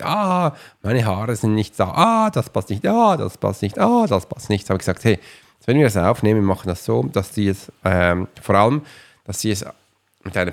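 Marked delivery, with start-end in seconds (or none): 0.0-4.7 high, exasperated "Ah" cries of dissatisfaction; fussy complaining. Retold or imitated. San complaining about her recording, mock exasperated high sighs. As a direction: play her fretting over every detail. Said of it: "und sagt".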